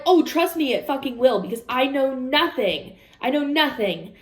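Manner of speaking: high, loud start, then an emphatic complaint; exasperated retort. Retold or imitated. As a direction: snap back in sarcastic frustration. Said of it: "I'm like".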